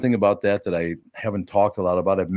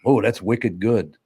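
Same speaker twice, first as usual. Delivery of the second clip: put-on Boston accent; slower than usual. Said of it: "I just love Boston".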